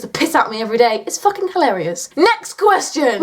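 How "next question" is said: high, drawn-out mock announcement; announcing. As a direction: call the next item, high and stretched. Announces next question of Q&A.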